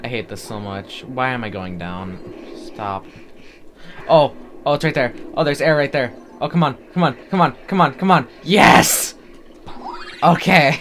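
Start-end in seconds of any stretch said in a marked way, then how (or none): 4.1-10.8 rising louder and higher as air appears; urgent, thrilled cheering on; desperate player spotting air, excited shouts. Real, not acted. Spots air while drowning.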